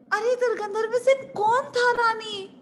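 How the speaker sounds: high-pitched baffled demand; exasperated maid. Acted. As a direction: press her for an answer in bewilderment. (झुंझलाई दासी का सवाल)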